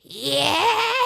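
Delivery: a hint of a low voice with a laugh; mock his new voice, half laughing; light impression of the grown-up voice; imitating a deep voice. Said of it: "now he sounds like".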